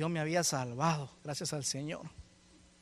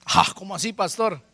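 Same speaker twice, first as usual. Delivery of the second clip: startled; 6 dB louder than usual. Acted. Congregant's startled question, acted.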